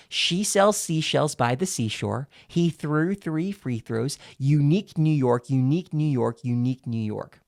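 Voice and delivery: tongue twisters spoken round a pen held in the teeth; deliberate tongue twisters through a pen in the teeth; pen between the teeth. Shown as a demonstration. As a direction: talk with a pen clamped between your teeth. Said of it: "I put it in between my teeth".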